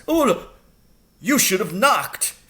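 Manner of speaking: high, flustered squeak of a caught man; startled headmaster. Acted. Headmaster caught refilling his gin, high startled yelp. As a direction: yelp it out, caught red-handed. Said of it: "He jumped a mile when he saw us".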